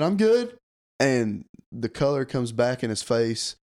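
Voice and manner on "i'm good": squeaked-up, louder mock answer; high-pitched retold reply. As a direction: pitch it way up, playing nervous politeness. His reply at gunpoint, retold.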